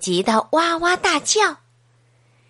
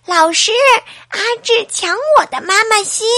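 fast, higher mock-tearful tattling; whining to teacher; 9 semitones higher, 6 dB louder, faster than usual. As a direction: complain like a wronged little kid. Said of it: "哭着说". (小朋友哭着向老师告状)

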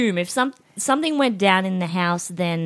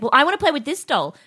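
bratty, higher sing-song whine; obnoxious little sister; 6 semitones higher than usual. Retold or imitated. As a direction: play the annoying older sister. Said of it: "was really obnoxiously".

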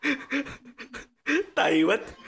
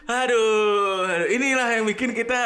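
mock exasperation; 6 semitones higher, 3 dB louder, slower than usual. Echoes exasperated complaint.

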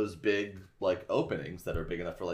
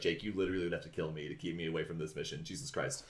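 irritated retort; 3 semitones lower, 8 dB quieter, faster than usual. Retold or imitated. Marco snapping back at Jake.

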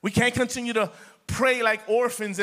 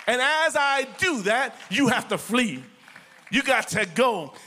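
authoritative prayer. Shown as a demonstration. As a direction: rebuke the devil like you own the place. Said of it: "prayed with authority".

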